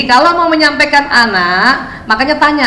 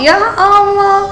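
exasperated sigh; 7 semitones higher, much slower than usual. Retold or imitated. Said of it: "Gua kalau denger 'Ya Allah', inget muka emak gue".

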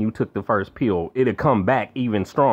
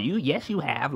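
hushed, accusing mom line; mock her accusation quietly; mimicking mom; 3 semitones higher, 6 dB quieter than usual. Quoting mom's lie at his door, hushed and accusing. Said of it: "talk about".

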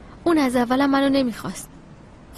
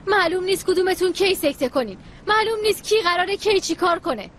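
higher, heated tirade; angry rant; 6 semitones higher than usual. Acted. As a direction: let it all spill out in frustration. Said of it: "فهمیدم از چی عصبانی شدی".

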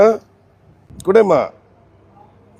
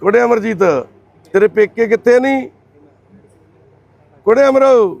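higher and louder call to get her attention; raised affectionate call across the room; 8 semitones higher, 3 dB louder than usual. Real, not acted. Calling out to the confused mother.

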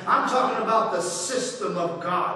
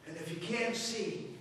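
gentle reassurance; 5 semitones lower than usual. Acted. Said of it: "And then he says".

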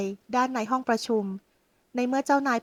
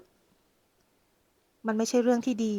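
firm refusal; much slower than usual. Acted. Husband refuses the model.

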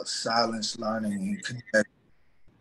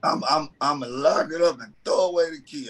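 mock vow; faster than usual. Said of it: "I said".

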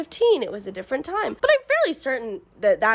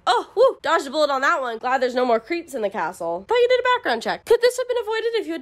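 1 mock relief; 4 semitones higher than usual. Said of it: "and they're like".

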